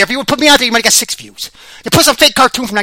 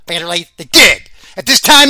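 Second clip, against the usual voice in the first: ordinary talk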